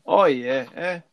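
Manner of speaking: lightly put-on Pittsburgh dialect; ironic Pittsburgh accent. Joking as locals say yins, ironic Pittsburgh accent. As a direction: toss it off in mock Pittsburgh speech. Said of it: "consciously will say it ironically".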